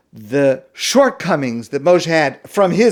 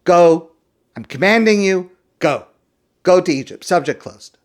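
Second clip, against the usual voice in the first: angry; 2 semitones higher than usual. Acted. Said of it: "God gets angry and says".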